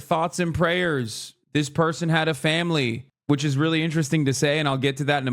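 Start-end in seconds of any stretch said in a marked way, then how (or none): 0.0-3.1 mock solemn media. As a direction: drag it out with fake piety. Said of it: "the media's like".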